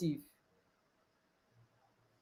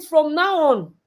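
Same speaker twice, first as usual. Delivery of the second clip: higher, louder, rushed scolding; stern mother; 5 semitones higher, 3 dB louder, faster than usual. Retold or imitated. Mother scolding disobedient daughter, loud stern. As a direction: scold her fast. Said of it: "I said".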